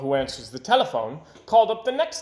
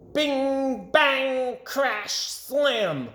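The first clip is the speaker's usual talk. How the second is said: 1 sound words; 10 semitones higher, much slower than usual. A narrator's reading. Sound of digging machine.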